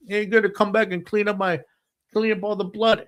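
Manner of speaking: high, worked-up retold demand; totally animated. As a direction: imitate an agitated man giving orders. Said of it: "he's totally animated".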